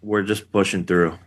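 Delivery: lisping through a broken jaw; slight lisp from jaw injury. Real, not acted. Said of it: "I have a little bit of a lisp right now because of it".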